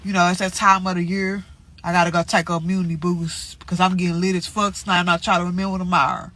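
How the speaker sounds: stuffy nose from allergies; congested. Real, not acted. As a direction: talk through a blocked nose. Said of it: "so I probably sound congested".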